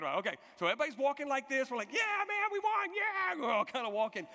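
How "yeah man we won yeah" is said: high, loud mock fan cheer; victory cheer. Fans leaving the game after a win, cheering. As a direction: whoop it up like a winning fan.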